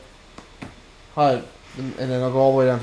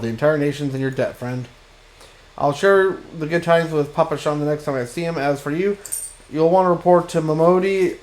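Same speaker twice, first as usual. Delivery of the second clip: lightly voiced welcoming official; a hint of grand proclamation in reading the dialogue; grateful quest giver; 3 semitones higher, 5 dB louder than usual. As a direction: deliver mildly formal thanks to a returning hero.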